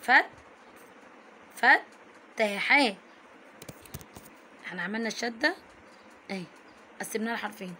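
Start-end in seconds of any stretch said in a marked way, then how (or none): 0.0-3.0 "فتحاه" slowly broken as fat, ta-ha; letter said twice. Shown as a demonstration. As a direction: stop on the t of "فت", then release ta-ha. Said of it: "كتب التاء مرتين".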